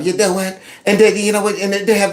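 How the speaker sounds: lightly imitating a pompous TV pundit; a hint of smug pundit delivery; mock pompous talk. Mocking MSNBC hosts, lightly smug. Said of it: "they talk like that".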